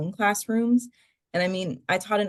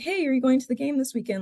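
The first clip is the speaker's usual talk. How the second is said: breezy, pitched-up, offhand casual tone, acted out; 7 semitones higher than usual. Retelling how a professor invited a student abroad: imitating a very casual ask. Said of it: "he says it very casually as if".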